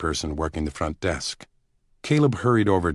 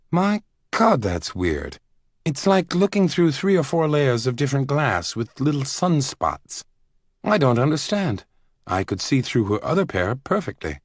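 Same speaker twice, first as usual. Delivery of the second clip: higher startled exclamation; Caleb astonished; 8 semitones higher than usual. Acted. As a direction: Caleb reacts to the strange glasses, surprised.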